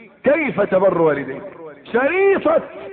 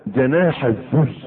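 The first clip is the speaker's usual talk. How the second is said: slow recitation; 5 semitones lower, slower than usual. Shown as a demonstration. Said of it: "ها؟".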